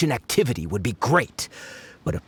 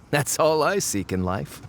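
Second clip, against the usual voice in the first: laughing it off. Acted. Laughs off her greedy slip.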